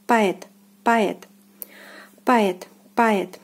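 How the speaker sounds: "poet" said pa-YET, stress on the second syllable; "poet" with O reduced to a; Russian pronunciation. Shown as a demonstration. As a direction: repeat "poet" as Russian поэт, separated for learners. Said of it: "it is pronounced as poet".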